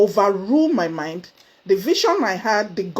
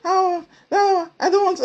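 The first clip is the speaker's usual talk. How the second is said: high, laughing mock refusal; laughing protest; 10 semitones higher than usual. Member protesting she is not ready, laughing. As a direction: laugh off the idea, playfully refusing. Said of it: "And I was like".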